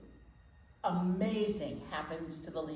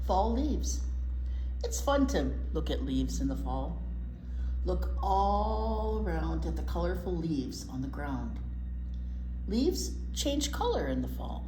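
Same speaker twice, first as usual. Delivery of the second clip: put-on reading to children. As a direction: read it aloud for little listeners. Reads picture book to children.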